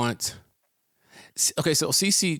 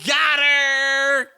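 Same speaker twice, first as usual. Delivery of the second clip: gloat; 13 semitones higher, 8 dB louder than usual. Real, not acted.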